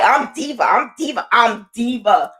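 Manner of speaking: happy little self-affirming chant; happy, excited. Retold or imitated. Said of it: "you sound happy and you sound like".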